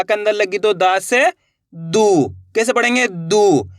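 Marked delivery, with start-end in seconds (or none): 1.7-2.3 दू with its vowel stretched out; drawn-out vowel. Shown as a demonstration. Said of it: "खींच के पढ़ेंगे". 3.1-3.7 दू held long, then falling; drawn-out vowel. Shown as a demonstration. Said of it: "खींच के पढ़ेंगे".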